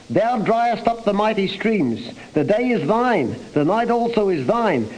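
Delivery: each Thou stressed and lifted high. Shown as a demonstration. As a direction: hit every Thou hard. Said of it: "And it's emphatic, this word thou".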